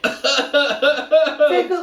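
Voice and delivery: laughing. Real, not acted. Laughing while giving advice.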